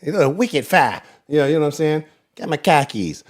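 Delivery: badly faked Boston accent; terrible Boston accent. Sports host mocking Patriots announcers, bad Boston accent. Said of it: "terrible accent. Horrible accent".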